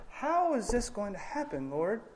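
soft, humble asking of how it will happen; Mary asking the Lord humbly and softly; humble question. Retold or imitated. Mary, trusting, asks God gently. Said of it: "two very different responses".

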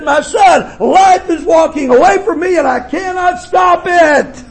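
retold mother's plea. Dying mother's words retold.

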